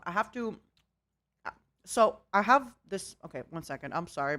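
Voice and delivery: talking with a mouthful of pear; words round a big bite; mouth full. Real, not acted. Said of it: "My mouth is full of pear".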